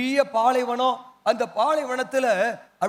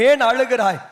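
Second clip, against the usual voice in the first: preacher's raised-voice question; a firmer, louder prompt; louder call; 5 dB louder than usual. Shown as a demonstration. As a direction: say it out for the congregation to repeat. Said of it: "சத்தமா சொல்லுங்களேன்".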